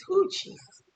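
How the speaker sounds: high-pitched startled whoo; whoo, Jesus. Real, not acted. Remembering the drink's taste, high startled exclaim. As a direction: react to a shocking taste.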